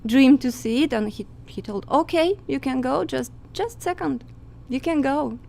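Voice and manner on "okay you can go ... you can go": customs officer voice. Retold or imitated. Customs officer's reply retold.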